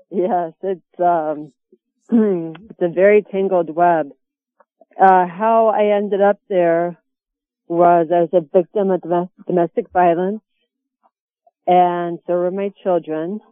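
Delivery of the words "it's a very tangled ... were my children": distant phone voice; phone held away. Real, not acted. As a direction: voice far from the phone. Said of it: "could you speak into the phone a little bit more?".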